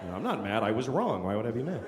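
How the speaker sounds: low, soft retold apology; subdued, low-voiced reply to a furious man; meek admission. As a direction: concede it quietly and calmly.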